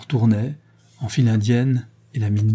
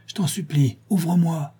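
pleading weakly; 7 semitones higher than usual. Acted. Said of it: "répondit une voix affaiblie".

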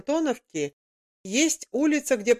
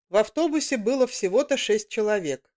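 usual speaking voice

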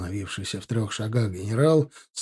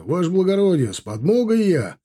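high, raised cry to an officer; shouting; 6 semitones higher, 3 dB louder than usual. A narrator's reading. Arriving rider announcing help to his officer, shouting. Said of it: "крикнул он".

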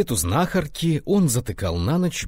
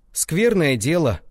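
musing; 7 semitones higher, 5 dB louder, slower than usual. A narrator's reading. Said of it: "рассуждал Соцкий".

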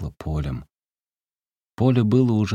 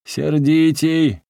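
high, loud, slow shout with a breaking voice; cracking shout; 9 semitones higher, 7 dB louder, much slower than usual. A narrator's reading. Peasant shouting at the beggar to sing angrier. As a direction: yell it till the voice cracks. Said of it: "крикнул он, срываясь".

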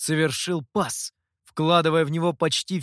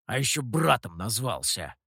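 недовольно; 5 semitones lower than usual. Acted. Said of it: "недовольно цыкнул Михоу".

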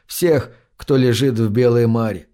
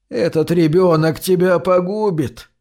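crying grandmother; 5 semitones higher than usual. Acted. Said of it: "плачет бабушка".

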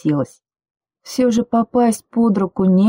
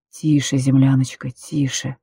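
calm her like a frightened animal; low man hushing his frightened girl; soothing hush; 4 semitones lower than usual. Acted.

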